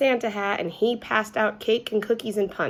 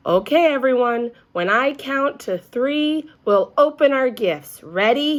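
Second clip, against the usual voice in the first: excited teacher; 5 semitones higher, 6 dB louder than usual. A narrator's reading. Teacher counting down gift opening.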